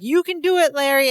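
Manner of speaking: put-on root for a boyfriend from the sidelines; cheering on. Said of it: "Jennifer's like".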